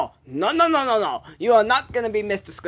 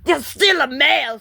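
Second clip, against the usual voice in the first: screaming; 5 semitones higher than usual. Acted. Arguing with the reindeer, screaming. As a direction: shout the retort at them. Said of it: "you really need to stop fucking screaming".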